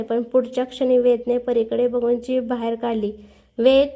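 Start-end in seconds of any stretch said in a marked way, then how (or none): 3.6-3.9 a louder angry call of the name; shouting a name. Acted. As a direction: yell his name at him, cross. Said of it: "परी पुन्हा ओरडली".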